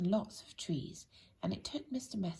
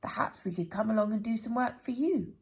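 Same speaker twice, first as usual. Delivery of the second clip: louder, pushy offer; brisk helpful busybody; bossy-helpful Mister Neat; 3 semitones higher, 6 dB louder than usual. Acted. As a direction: press the offer on him. Character offers.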